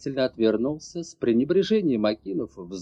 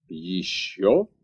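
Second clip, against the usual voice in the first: barked; 7 semitones lower than usual. A narrator's reading. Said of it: "тут же рявкнул Торрентор".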